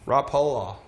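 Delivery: "Rapala" said rah-POH-luh; trying a pronunciation. Shown as a demonstration. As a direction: round the middle of "Rapala" to POH. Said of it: "I think it's Rapala".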